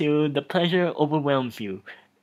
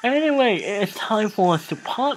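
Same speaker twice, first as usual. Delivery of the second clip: higher, louder theatrical droog sign-off; mock-grand Clockwork Orange sign-off, pitched up and loud; 8 semitones higher, 6 dB louder than usual. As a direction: ham up a Clockwork Orange droog bidding farewell. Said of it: "I have been watching A Clockwork Orange".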